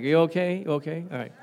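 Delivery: quick, offhand check-in, imitating the guys; perfunctory retold concern; not babying. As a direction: ask it casually and move on. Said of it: "these guys are not babying me".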